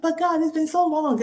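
pleading protest. Retold or imitated. Protesting to God retold.

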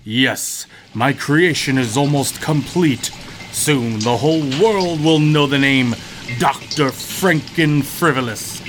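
lightly voiced mad scientist; scheming mad doctor, hushed; megalomaniac rant.

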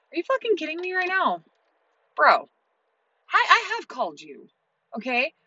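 angry retort. Retold or imitated. Retold quarrel on the phone.

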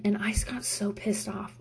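whispered admission. Real, not acted. Admits anger.

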